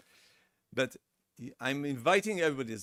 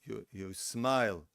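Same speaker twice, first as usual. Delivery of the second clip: tone down, calm; 3 semitones lower, slower than usual. Shown as a demonstration. Therapist showing how to answer a shouting partner, calm and slow. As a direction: settle the tone and smile. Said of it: "You put your tone down".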